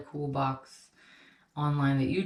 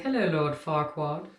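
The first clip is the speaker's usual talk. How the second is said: bad Scottish accent. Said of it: "That terrible Scottish accent".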